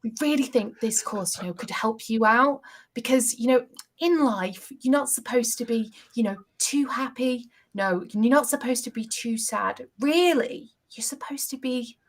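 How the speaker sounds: a lightly voiced, sugary registrar; registrar impression. Guest imitating the registrar selling her a course, lightly sugary. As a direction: play the sweet-talking registrar, ending in a hush. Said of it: "let me try to do my best impression".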